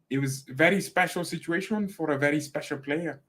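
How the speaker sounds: mock German accent gone astray; botched German accent. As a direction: do a muddled German-Italian accent. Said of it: "I'm mixing Italiano".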